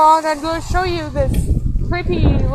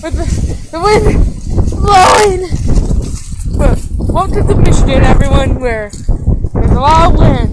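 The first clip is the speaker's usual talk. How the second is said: wind in the face; 6 dB louder than usual. Real, not acted. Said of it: "It's so windy out here".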